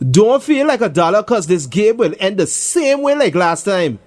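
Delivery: high, smug reassurance with a grin; lightly voiced cocky boy; confident smile. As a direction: brag with a smile. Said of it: "with a large confident smile".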